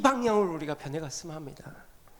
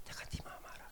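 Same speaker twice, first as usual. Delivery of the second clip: low, whispered comfort; tender whisper; 21 dB quieter, faster than usual. Acted. God whispering comfort to a struggling sinner. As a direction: whisper it like a loving father.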